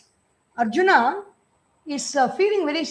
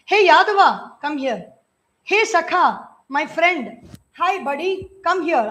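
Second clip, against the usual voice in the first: casual calling out. Retold or imitated. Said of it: "I called you, 'Hey Krishna".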